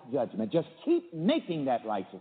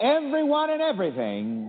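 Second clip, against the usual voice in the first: higher and louder, leading the repeat; affirmation lead; 8 semitones higher, 4 dB louder than usual. Shown as a demonstration. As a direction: call it out for the room to echo. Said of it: "let's repeat this affirmation".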